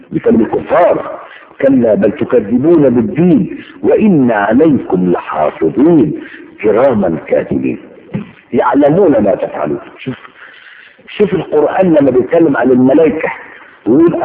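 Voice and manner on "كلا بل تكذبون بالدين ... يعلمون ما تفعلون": slow, emphatic scripture recital; Quran recitation. Acted. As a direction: recite the verse slowly, drawing out the words.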